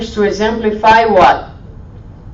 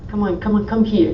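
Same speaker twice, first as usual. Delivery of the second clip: put-on parent soothing child; faster than usual. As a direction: coax the little one in gently. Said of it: "Don't we do that? Say".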